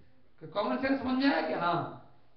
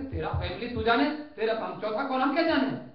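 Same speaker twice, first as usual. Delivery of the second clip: dismissive retort; 2 semitones higher, 5 dB louder than usual. Acted. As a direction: brush off his riddle. Crowd throws question back.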